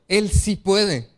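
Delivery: Él sí puede said very slowly, stress on Él; slow it right down and lean on Él; slow emphatic. Real, not acted. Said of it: "slow emphatic answer".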